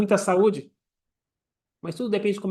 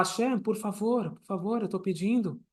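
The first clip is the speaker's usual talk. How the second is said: soft, slowed pleading; humble supplication; 2 semitones higher, 7 dB quieter than usual. Shown as a demonstration. Worshipper pleading with Hashem for life, humble and soft. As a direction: beg gently, voice lowered in volume. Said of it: "se coloca numa posição de humildade, su-, de súplica".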